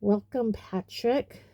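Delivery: stiffly polite welcome. Acted. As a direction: greet with reluctant formality. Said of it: "said Nick stiffly".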